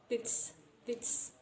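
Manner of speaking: "tits" as "its" begun with the th of "with"; th-linked pronunciation. Shown as a demonstration. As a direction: start "its" on a th sound, giving "tits". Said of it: "with the th sound".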